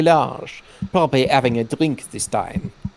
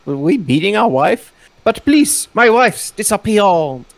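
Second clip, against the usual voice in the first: higher, louder pleading husband; 5 semitones higher, 3 dB louder than usual. Acted. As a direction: beg desperately for help.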